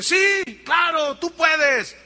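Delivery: high, loud, keen yes; eager spectator. Acted. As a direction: gush your support. Spectator eagerly answering walker.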